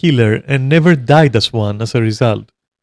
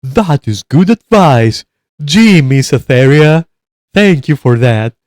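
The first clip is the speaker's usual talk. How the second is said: mock sincere viewer gratitude; naive grateful viewer; 2 semitones higher, 3 dB louder, slower than usual. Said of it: "you're going".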